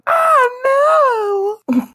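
high, loud wailed victim cry; mock cry of alarm. Girl drained of energy cries out, mock wail. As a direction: cry out in hammed-up distress.

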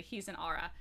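low, soft imitation of a hushed answer; quiet retold reply. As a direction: break it to her quietly. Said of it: "then Samrin said quietly".

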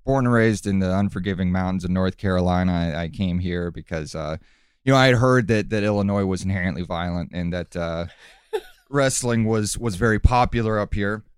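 low calm villain voice; calm menacing wrestler. Acted. Wrestler character interviewed calmly.

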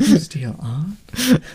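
put-on slow, high, deliberately awful Irish accent; bad Irish accent. Co-host repeating the line in the worst Irish accent. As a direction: echo it in a terrible Irish lilt. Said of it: "the worst Irish accent of all time".

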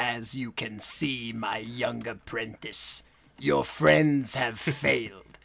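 slow, lightly voiced evil emperor; a hint of a sinister villain; Emperor Palpatine. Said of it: "That's the first person you have to impersonate".

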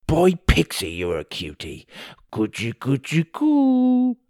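put-on high baby talk cooing; dopey cartoon bellow. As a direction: coo at the baby like a goofy frog. Tim coos at baby.

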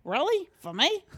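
Rhode Island accent, rising questions; incredulous questions in a thick Rhode Island accent; exaggerated guttural Rhode Island accent. Shown as a demonstration. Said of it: "it's very, like, guttural".

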